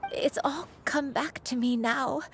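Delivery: words breaking with a sob; crying. Acted. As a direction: let the tears come through. Grandmother overcome by memories.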